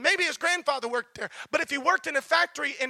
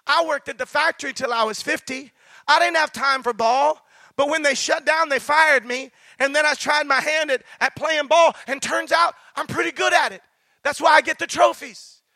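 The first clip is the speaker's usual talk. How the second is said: exasperated loud retort; 7 dB louder than usual. Retold or imitated. Old man loses patience, retold.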